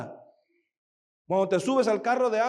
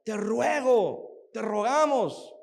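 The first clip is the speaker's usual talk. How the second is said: slow pleading; slower than usual. Acted. Disciple begs the prophet to come.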